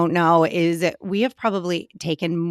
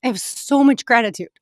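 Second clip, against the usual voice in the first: choked up and teary; 5 semitones higher, much faster than usual. Real, not acted. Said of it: "I can't even say it without crying".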